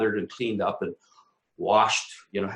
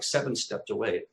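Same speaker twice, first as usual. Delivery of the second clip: ordinary delivery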